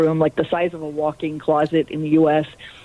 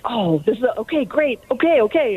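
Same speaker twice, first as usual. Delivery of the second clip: higher-pitched, excited acceptance; mildly acted surprise turning to excitement; retold excitement; 6 semitones higher than usual. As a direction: imitate someone eagerly agreeing, pitch jumping up. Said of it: "she was all excited".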